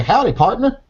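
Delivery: teasing, hammed-up cowboy twang; mock cowboy accent. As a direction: put on a jokey cowboy voice. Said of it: "You say".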